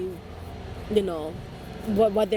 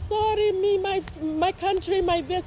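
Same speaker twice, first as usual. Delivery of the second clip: imitating dad; 8 semitones higher than usual. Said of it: "You're like".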